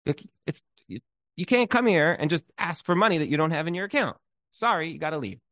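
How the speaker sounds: mock outraged teller, short of a scream; half-strength telling-off; retold angry teller. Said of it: "teller started screaming at her".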